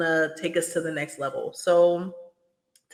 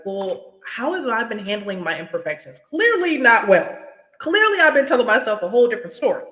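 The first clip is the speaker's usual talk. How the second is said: exasperated self-talk; 4 semitones higher, 5 dB louder than usual. Retold or imitated. Retelling self-talk, voice rises loudly.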